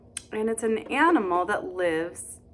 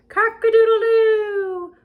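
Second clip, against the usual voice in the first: much higher, loud rooster crow; 12 semitones higher, 8 dB louder than usual. Acted. Storytime reader crowing for the kids, loud and high. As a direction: belt it out like a proud rooster. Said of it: "there was a rooster".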